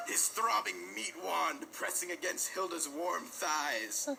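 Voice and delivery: reading through real laughter; laughing through it. Real, not acted. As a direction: try to keep reading while cracking up. Reread while still laughing.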